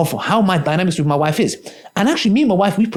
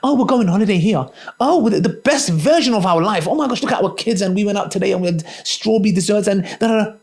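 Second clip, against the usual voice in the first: mock vlogger; 3 semitones higher than usual. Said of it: "I can do a vlog with my wife".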